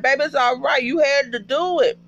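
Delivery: high-pitched, insistent comforting; worked-up, high-voiced consoling; emotional reassurance. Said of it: "just hug him".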